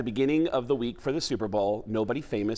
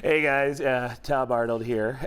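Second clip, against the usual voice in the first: Tom Arnold impression; slower than usual. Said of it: "full-blown Tom Arnold on the air going".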